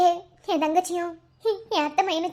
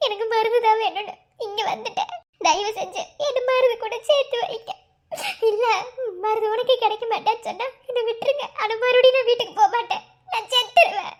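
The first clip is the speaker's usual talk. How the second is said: crying plea. Acted. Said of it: "அழுகாத".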